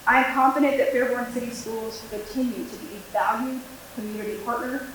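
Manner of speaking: prepared address, each phrase starting firmer, then tapering; formal speech. Real, not acted. School liaison addressing the school board on military children, formal speech. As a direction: deliver a prepared statement to a board.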